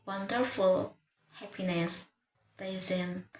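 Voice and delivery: "wonderful, happiness, pleasant" with relaxed unstressed syllables; weak unstressed syllables. Shown as a demonstration. Teacher giving schwa examples, unstressed syllables weak and relaxed. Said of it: "unstressed syllables sound weak and relaxed".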